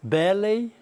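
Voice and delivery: Ballet stressed on the first syllable, "BAllet"; British ballet. Shown as a demonstration. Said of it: "acento da palavra".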